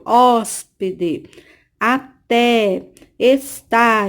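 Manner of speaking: hóspede, até, está sounded out with open stressed vowels; open accented vowels in hóspede, até, está. Shown as a demonstration. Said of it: "abrimos bem a boca pra, pra pronunciar".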